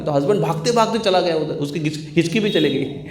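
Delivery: ordinary talk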